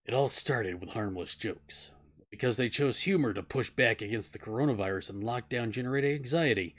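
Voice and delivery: noir detective. Shown as a demonstration. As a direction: read it like a film noir narrator. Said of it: "I'm going to read this in a noir style".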